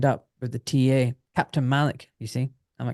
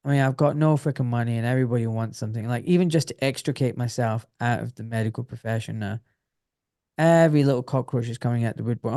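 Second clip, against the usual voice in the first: ordinary delivery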